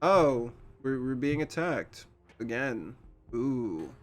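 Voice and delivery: bored villain. Retold or imitated. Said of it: "just kinda is like".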